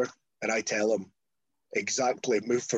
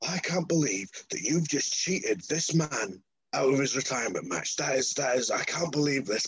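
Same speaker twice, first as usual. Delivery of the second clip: imitated outraged promo; mock indignation; 3 semitones higher than usual. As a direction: protest like a wronged wrestler on the mic. Marty's indignant speech on the mic.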